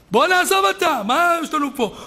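high, loud urging to leave; acted alarm. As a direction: urge a partner away over the noise. Acted policeman fleeing the madhouse. (דחיפות מוצגת בקול גבוה)

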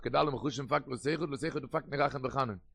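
very slow, deliberate reading of Kedal und Chushim; slow dictation. Shown as a demonstration. Rabbi to his students, dictating the phrase slowly. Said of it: "repeated after it".

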